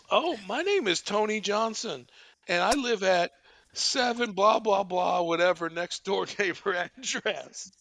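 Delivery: a hint of a little kid. Prank caller giving neighbor's address, light kid voice. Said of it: "love a little kid voice".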